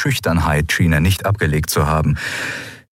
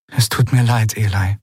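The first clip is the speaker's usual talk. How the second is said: mildly raised, sincere apology; 3 semitones higher than usual. A narrator's reading. Returning woman apologises to her sister, sincerely. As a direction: apologise earnestly, with understatement. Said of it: "sagte sie aufrichtig".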